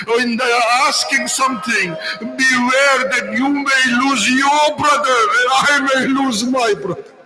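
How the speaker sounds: a preacher voicing Imam Hussein's warning to Sakina; rising sermon lament. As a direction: mourn the imam's warning aloud to the crowd.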